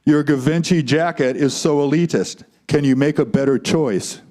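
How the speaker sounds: a hint of a manly doll; lightly voiced masculine Ken. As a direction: play Ken with a slightly firm masculine voice. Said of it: "said Ken in his masculine voice".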